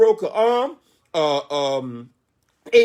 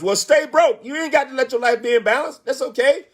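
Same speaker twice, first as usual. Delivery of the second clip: pitched higher, fired up at the whiners; getting too excited; 5 semitones higher than usual. Real, not acted. Speaker to audience about complainers, higher and fired up. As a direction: let the excitement run away with you. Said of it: "Oh, I'm getting too excited".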